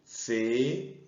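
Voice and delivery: "Fenomenal" slowly, fe, no, me, nal, with pauses; syllable by syllable. Shown as a demonstration. Teacher separates the word before calling it, "Fenomenal" in isolated syllables.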